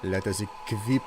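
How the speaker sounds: put-on a light, steady French accent while chatting. Streamer doing a redeemed accent for chat, lightly French. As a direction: keep a mild French accent going. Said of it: "I was told to do an accent".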